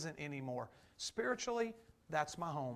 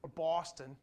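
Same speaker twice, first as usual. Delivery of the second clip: put-on Martin and Boston in an East Coast accent, "MAH-tn", "BAW-ston"; 3 semitones lower than usual. Preacher showing how East Coasters talk, accented Martin and Boston. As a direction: imitate East Coasters saying Martin without the r, then Boston. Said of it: "it's all over there on the East Coast".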